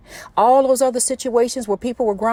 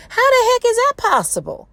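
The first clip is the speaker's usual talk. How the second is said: much higher, incredulous preacher's cry; passionate exclamation; 12 semitones higher than usual. Real, not acted. Marvelling to listeners at God's promise, voice raised high. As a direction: throw the question out in amazement. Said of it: "sorry if I'm yelling into my phone".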